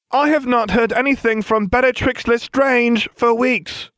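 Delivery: slow, high, every syllable spelled out; stagey, slow, enunciated line in a fake meeting; carefully enunciating. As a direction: overpronounce each syllable for a hidden listener. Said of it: "carefully enunciating each syllable".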